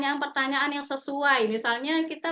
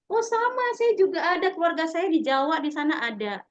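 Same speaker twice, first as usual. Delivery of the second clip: antusias menemukan kesamaan; 5 semitones higher than usual. Acted.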